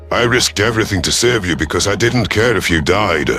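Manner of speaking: dripping with sarcasm; dry sarcastic retort. Acted. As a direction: say it as if the opposite is obvious. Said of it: "Sarcasm dripped from my voice".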